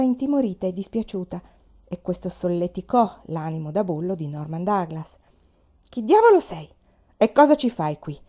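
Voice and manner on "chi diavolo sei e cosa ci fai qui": loud, higher-pitched thundering demand; booming voice. A narrator's reading. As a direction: boom it out like a bully. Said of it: "chiese con il suo vocione tonante".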